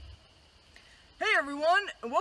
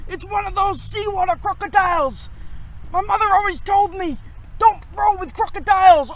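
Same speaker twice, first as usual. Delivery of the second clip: louder pirate voice battling the waves; storm-tossed pirate; 3 dB louder than usual. Acted. Pirate captain tossed by waves, louder and lively. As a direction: shout over the storm like a sailor.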